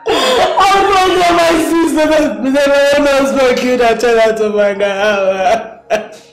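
anguished, tearful questioning; distraught wailing. Acted. Asking Richard how to tell the sister, distraught. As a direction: lament it helplessly through tears.

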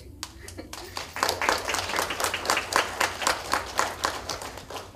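long breathy laugh fighting back tears; emotional teary laugh. Real, not acted. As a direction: laugh it off while choking up. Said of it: "I'm really emotional".

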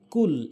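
কুল with an ordinary Bengali k; common mispronunciation. Shown as a demonstration. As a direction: say কুল with a front k, not q. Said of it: "এখানে আমরা ভুল করি". (কুল সাধারণ বাংলা ক দিয়ে)

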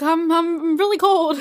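a mock cold whine; complaining cold. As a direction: drag out the complaint. Freezing before surgery.

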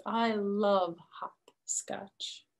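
slow, hushed whisper; slow whispered delight. Acted. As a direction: breathe it out slowly like a secret. Girl's quote in story.

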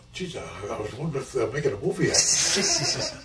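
chuckling through the words; laughing. Real, not acted. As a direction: tell it amused, breaking into a laugh. Laughs at his own retold thought.

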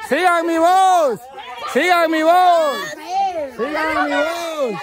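repeated, sustained call with falling endings. Real, not acted. Host guiding players toward hidden item, calling out. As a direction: chant it out as a beacon for the searchers.

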